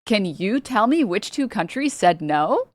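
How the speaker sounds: slow, bright cartoon guide asking viewers; Dora the Explorer voice. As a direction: ask the audience like a kids' show host. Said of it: "in the Dora the Explorer voice".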